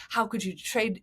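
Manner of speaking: everyday fan grumble at normal volume; regular sports talk. Retold or imitated. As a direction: mildly imitate a complaining sports fan. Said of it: "kind of regular sports talk".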